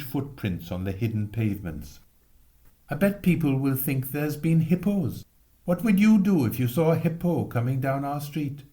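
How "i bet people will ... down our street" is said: put-on excited boy. Boys' excited chatter in snow.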